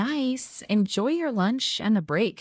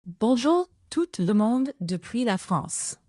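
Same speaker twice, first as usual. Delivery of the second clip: slightly louder French greeting, opening raised; a little louder. Pretend. AI assistant asked for one last time, a little louder. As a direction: project the French phrase a bit more. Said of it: "a little bit louder".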